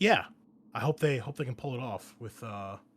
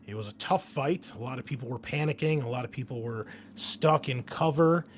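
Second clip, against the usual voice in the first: game master scene setting. Acted. Game master briefing the marine squad on their mission, measured narration. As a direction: lay out the mission briefing deliberately.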